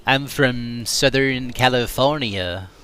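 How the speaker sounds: slow, laid-back SoCal accent; Southern California accent. Shown as a demonstration. Streamer tries his own Southern California accent. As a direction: stretch it out like a SoCal local. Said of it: "I'm gonna go going for".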